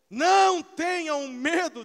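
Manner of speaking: slow, loud, high proclamation; preached shout. Acted. Preacher voicing Jesus to the church, slow loud shout. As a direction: proclaim it slowly like a command from heaven.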